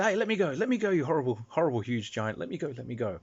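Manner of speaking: lightly voiced squeaky fairy, high at first then fading; a tiny captive squirming free, voiced lightly; struggling fairy. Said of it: "they say".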